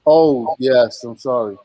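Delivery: ordinary talk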